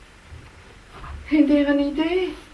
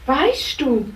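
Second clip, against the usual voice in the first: kindly helper Racontino; 3 semitones lower than usual. Acted. Racontino comforting the princess, lower and gentle. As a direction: talk gently to the lost princess.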